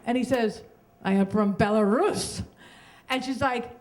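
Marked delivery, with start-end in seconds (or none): 1.0-2.4 lightly imitated Belarusian accent; thick Belarusian accent. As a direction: put on a hint of a Belarusian accent. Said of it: "he has a very thick accent".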